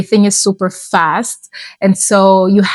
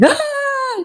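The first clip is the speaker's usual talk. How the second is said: high-pitched, soft mock scream; thin squealed imitation of yelling, held back in volume; 6 dB quieter than usual. Speaker imitates herself at her mom's house, mock yelling. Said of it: "there was just me yelling".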